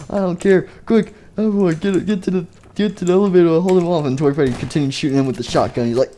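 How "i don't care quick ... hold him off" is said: urgent yelling. Acted. A character yelling at everyone to flee to the elevator. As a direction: bark the escape order.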